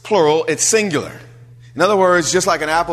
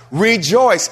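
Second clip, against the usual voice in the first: Rejoice called out loud and higher; emphatic exclamation; 5 semitones higher, 4 dB louder than usual. Shown as a demonstration. Preacher gives the verse's exclamation loud and emphatic. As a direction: shout Rejoice like an exclamation point. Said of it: "Exclamation point".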